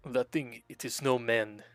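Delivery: put-on a weak stab at a Russian accent, barely changed; faint, failed Russian accent; attempted Russian accent. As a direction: try a Heavy-style Russian accent and fall short. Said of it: "I can't do a Russian accent".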